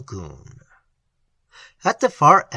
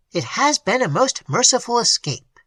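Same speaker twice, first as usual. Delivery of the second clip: clergyman Maloney thanking God for the escape, pulpit voice, emotional; 7 semitones higher than usual. A narrator's reading. Emotional pulpit voice. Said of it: "his pulpit voice struggling with his emotion".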